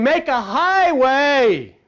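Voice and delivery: drawn out, slow call; proclaiming it slowly to the listeners. Acted. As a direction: stretch it like a prophet. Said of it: "a voice crying within you saying".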